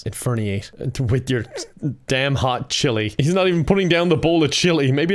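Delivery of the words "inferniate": mock spell incantation. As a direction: intone it slowly like a dark wizard. Casting a spell on dad.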